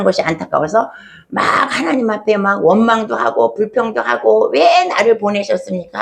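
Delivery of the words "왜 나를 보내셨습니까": usual speaking voice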